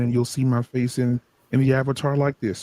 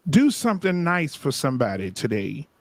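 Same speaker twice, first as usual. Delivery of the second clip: preacher voice. Acted. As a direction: bless them with a gentle sermon. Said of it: "I'll go back to my preacher voice".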